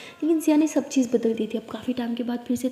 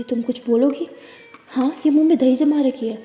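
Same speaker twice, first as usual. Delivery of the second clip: scolding; 5 dB louder than usual. Acted. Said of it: "तारा को बहुत डांटती है".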